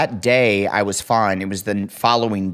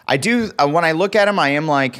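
higher-pitched touch of Boston accent; 5 semitones higher than usual. Real, not acted. Co-host talking about e-bikes, slipping into Boston accent.

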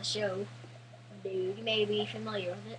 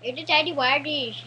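put-on Indian accent; 5 semitones higher, 5 dB louder than usual. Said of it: "the Indian accent".

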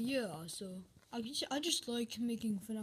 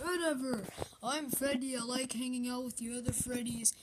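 chatty plush bear with a wavering lilt; lilting Nightmare Freddy. Acted. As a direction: lightly swoop the pitch up and down. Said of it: "My voice goes up and down constantly".

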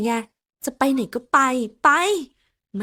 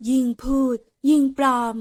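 higher, louder mocking tone; sarcastic voice; 4 semitones higher, 4 dB louder than usual. Secretary mocks her boss's excuse sarcastically. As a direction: put on a snide voice to needle him. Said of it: "แล้วจะมาทำเสียงประชดทำไม".

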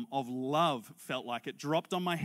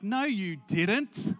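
slow, drawn-out incredulity; imitated disbelief; 4 semitones higher, 4 dB louder, much slower than usual. Seatmate hearing about the name on the cup, imitated slow disbelief. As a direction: stretch it out in disbelief.

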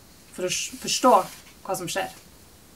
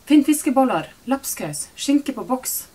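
higher and louder, rattling off orders; loud commands; 6 semitones higher, 7 dB louder, slower than usual. A narrator's reading. Mother hoarding in the shop, shouting orders at daughter. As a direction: fire the list at her like commands.

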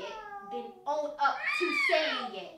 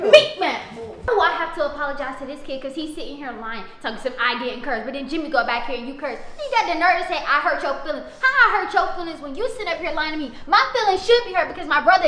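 angry rant; 6 dB louder than usual. Acted. Angry rant about apologizing.

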